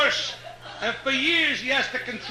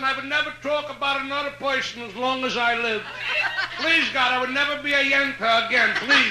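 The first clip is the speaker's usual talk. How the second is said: pleading Yiddish grandmother; 4 semitones higher than usual. Retold or imitated. Grandmother begs God for the grandson, Yiddish accent. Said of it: "I love Jewish dialect stories".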